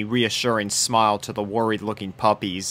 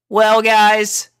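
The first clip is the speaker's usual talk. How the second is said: frank; 10 semitones higher, 5 dB louder than usual. Acted. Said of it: "she said frankly".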